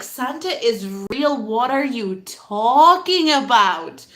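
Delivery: mock-indignant child's comeback, stretched out; indignant retort. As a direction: argue it slowly, leaning hard on TALKING. Childhood debate with doubters, acted.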